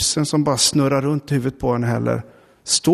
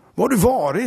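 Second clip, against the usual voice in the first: agitated, distressed, upset tone, pitched up; 8 semitones higher than usual. The HR person rushes up to Lena where she sits, asking upset. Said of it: "Frågade hon upprört".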